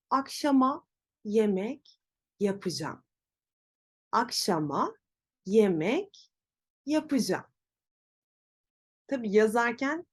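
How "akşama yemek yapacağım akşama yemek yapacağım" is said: "yapacağım" said as "yapıcam"; everyday "Akşama yemek yapacağım" with "yapacağım" shortened to "yapıcam"; correct spoken form. Shown as a demonstration. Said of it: "Doğrusu".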